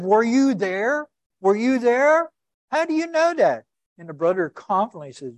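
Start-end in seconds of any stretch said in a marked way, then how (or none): 0.0-3.6 high, loud, exasperated demand; angry tour guide. Retold or imitated. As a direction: snap it back at him like a fed-up guide. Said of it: "He started getting angry".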